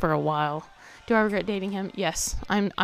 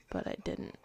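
whispering; 12 dB quieter than usual. Real, not acted. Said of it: "This is a quiet episode".

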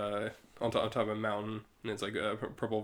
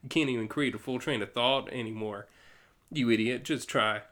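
southern-tinged Starro. Acted. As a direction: taunt with a southern drift. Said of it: "turning more southern at this point".

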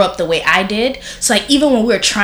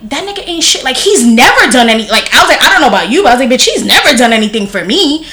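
raised, louder blunt dismissal; blunt retort; 4 semitones higher, 5 dB louder than usual. Retold or imitated. To her crying sister about their dad, loud and blunt. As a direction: brush it off, loud and cutting.

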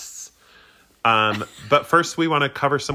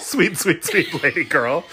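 laughing; 3 semitones higher, slower than usual. Real, not acted. Echoing friend's phrase, laughing.

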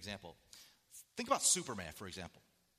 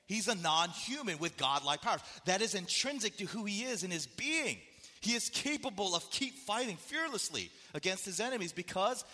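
raised, high, emphatic preaching; preaching at full force; 7 semitones higher, 5 dB louder than usual. Real, not acted. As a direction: build it up, proclaim it to the room. Preaching climax on Superman.

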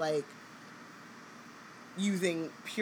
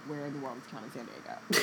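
game show host; 4 semitones lower, 4 dB quieter than usual. Pretend. Game show parody quote.

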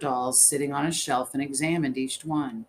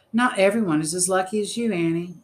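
raised, higher-pitched outburst; voice rising; 6 semitones higher, 7 dB louder than usual. A narrator's reading. Elsie rounds on her friend, voice raised. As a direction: throw it at her, loud and high. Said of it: "Elsie's voice rose".

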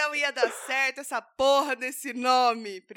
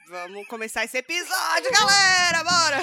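loud hyped opening; 5 semitones higher, 6 dB louder than usual. Real, not acted. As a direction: pump up the crowd.

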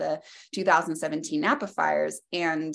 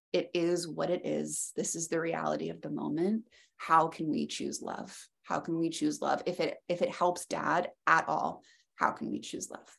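gentle calming; 6 dB quieter than usual. Real, not acted. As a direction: ease her into calm. Calming mother after death.

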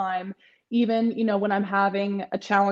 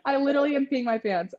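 laughing; 5 semitones higher, faster than usual. Real, not acted. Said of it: "I can't even breathe".

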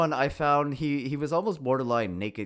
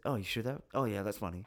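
a light take on an actor's laid-back movie-star voice, a touch softer; Ryan Gosling impression; 5 dB quieter than usual. Podcaster mimicking Gosling's recent way of talking, lightly imitated. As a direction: toss it off casually like a cool leading man. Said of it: "he talks like this".

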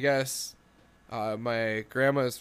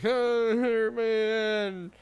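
mock pity; 8 semitones higher than usual.

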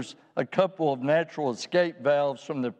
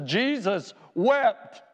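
slow solemn reading; 5 semitones higher, much slower than usual. Real, not acted. Reading the short verse slowly.

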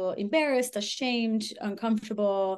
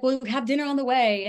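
higher and louder, breezy mock pitch; smooth charmer; 4 semitones higher, 5 dB louder than usual. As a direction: toss it off like a slick charmer. Ex's smooth reply quoted.

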